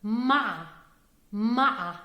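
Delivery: مع said firmly with a throaty ain; Arabic word ma'a. Shown as a demonstration. Teacher drilling one word for learners. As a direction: stress the word مع, throat sound at the start. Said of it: "Pay attention to the word".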